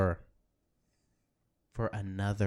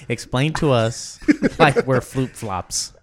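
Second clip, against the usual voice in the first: laughing; 3 semitones higher, 12 dB louder than usual. Real, not acted. Still laughing, pressing alien.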